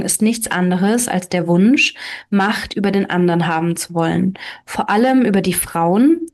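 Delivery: calm read-aloud storytelling voice; story narration. A narrator's reading. Narrator reading a fairy tale to listeners, steady storytelling. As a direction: tell the fairy tale evenly, voicing each character lightly.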